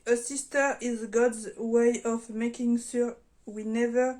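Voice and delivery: slow, careful English with a strong French accent. Real, not acted. French vlogger reading an English engraving aloud, slow French-accented English. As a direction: read the English line slowly in a thick French accent. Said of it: "Désolée pour mon anglais pourri".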